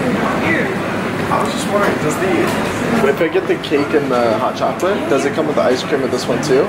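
ordering in a put-on Australian accent; a customer orders at the counter in a put-on Australian accent. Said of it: "making fun of him".

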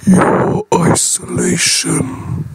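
hushed, whispered moon voice. Acted. The moon speaks to James.

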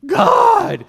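very high, loud shout; full-voiced, high-pitched cry; crying out to God. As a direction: shout it out in desperate appeal.

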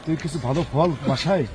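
soft, brotherly reassurance; gentle insistence. Real, not acted. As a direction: kindly press help on someone upset. Pressing help on crying vendor.

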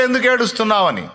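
lightly voiced angels asking. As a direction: voice the angels' puzzled question. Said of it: "లోపల దూతలు అడిగారు".

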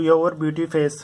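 your beauty face stretched out word by word; slowly spelling out a mistake; slow wrong example. Shown as a demonstration. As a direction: drag the wrong phrase out to show it. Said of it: "ये गलत है".

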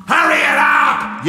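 high, impatient full yell. Acted. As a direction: yell down into the cave. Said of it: "yelled Abanazar".

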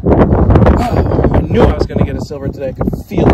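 fast, loud excited burst; thrilled. Real, not acted. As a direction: blurt it out, overjoyed. Finds silver coin, thrilled.

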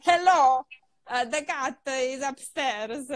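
put-on slow halting beginner English, Italian-accented; mock beginner English with an Italian accent; broken English. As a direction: recite a textbook phrase haltingly. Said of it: "it used to be like".

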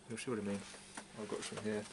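talking around pipe stem; pipe in mouth. Real, not acted. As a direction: teeth clenched on pipe. Seen 0: Pipe stem clenched between teeth throughout the labelled words.

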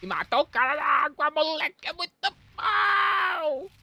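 excited shout. Real, not acted. Celebrating a kill.

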